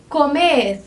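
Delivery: "Comer" with the weight on its last syllable; final-syllable stress. Shown as a demonstration. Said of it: "faz com que essa sílaba mais forte fique aqui no final".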